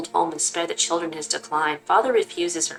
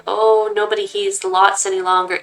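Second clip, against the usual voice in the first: a hint of an old man's lament, a little louder; lamenting grandfather; 3 dB louder than usual. Grandfather bemoaning the family's fall, lamenting. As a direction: moan about the family's lost honor. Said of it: "he begins lamenting".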